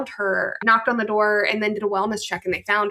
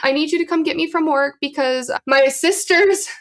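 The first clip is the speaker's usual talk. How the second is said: imitated crying plea; 6 semitones higher than usual. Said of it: "she's crying".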